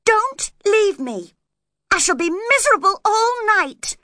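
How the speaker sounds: distraught plea. A narrator's reading. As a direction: beg tearfully for them to stay. Begging him not to go.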